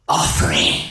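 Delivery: low, booming voice from the sea; deep god voice. Acted. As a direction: rumble it up from the deep. Unseen god voice from the waves.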